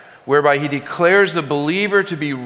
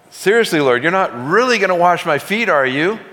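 incredulous; 5 semitones higher, 3 dB louder than usual. Retold or imitated. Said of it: "It's like he's saying".

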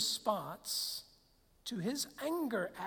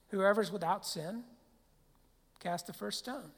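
very calmly. Retold or imitated. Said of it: "he just said very calmly".

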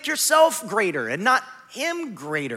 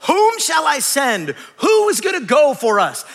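louder, slow, commanding call; calling voice of the Lord; 4 semitones higher, 5 dB louder than usual. Acted. The Lord asking the court whom to send, commanding call. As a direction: call out across the heavenly court.

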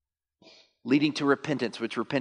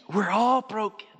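emphatic confession; 10 semitones higher, 3 dB louder than usual. Acted. Repeats the confession line.

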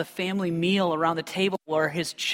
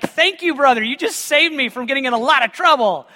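relieved thanks; 5 semitones higher, 3 dB louder than usual. Retold or imitated. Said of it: "I was like".

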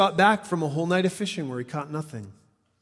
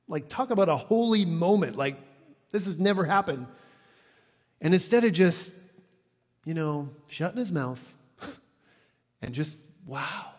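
ordinary talk, nothing marked

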